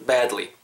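"badly" with a wide, spread "a"; spread-lip vowel. Shown as a demonstration. Teacher shows an easier way, "badly" with a wide, long "a". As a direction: stretch the mouth sideways on the "a" of "badly". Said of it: "양옆으로 이렇게 좀 짠다고".

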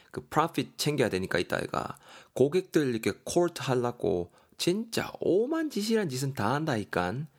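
lightly acted gripe about an older brother; exasperated younger brother. Daegeon complains to his friend about his brother, exasperated. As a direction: vent to a friend, drawing out key words.

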